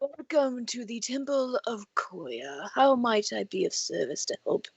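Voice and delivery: a hint of a doddering elder; very old man. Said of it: "we totally have an old man voice".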